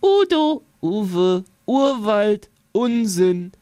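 wie aus weiter Ferne; fern. A narrator's reading. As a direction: Stimmen von weit her rufen. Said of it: "Aus weiter Ferne hört er die vielen verschiedenen U-Wörter". (wie aus weiter Ferne)

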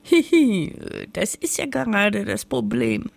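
little high giggle, then the words; giggling. Acted. Witch admitting to the sun she can't throw things away, giggling. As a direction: giggle it out sheepishly. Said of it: "kicherte das Hexlein".

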